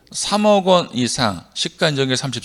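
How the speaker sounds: "삼억 원 이상 시가 인정액 삼십" run together without breaks; wrong run-on reading. Shown as a demonstration. Teacher showing students how not to recite the clause, run-on reading. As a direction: read "삼억 원 이상 시가 인정액 삼십" straight through at ordinary pace. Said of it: "제가 언제 그렇게 했어요".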